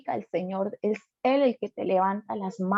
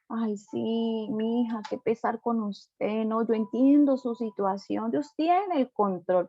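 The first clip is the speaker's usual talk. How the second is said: pitying voice. Retold or imitated. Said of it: "hasta cambian la voz".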